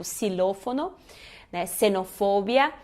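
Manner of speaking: "xilófono" and "Xenofobia" begun with a plain S; initial X as S. Shown as a demonstration. Teacher showing X at word start, clear S sound. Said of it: "ele tem o som de S".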